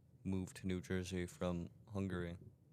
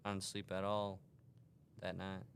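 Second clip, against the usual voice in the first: put-on southern accent; 4 dB louder than usual. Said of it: "in the southern voice".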